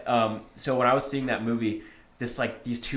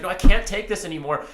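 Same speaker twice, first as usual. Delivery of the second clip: higher, louder mock outburst; retold freak-out; 6 semitones higher, 6 dB louder than usual. Imitating a woman in the theater to her companion, mock freak-out. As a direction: act out a moviegoer who has had enough. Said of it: "she was, like, freaking out".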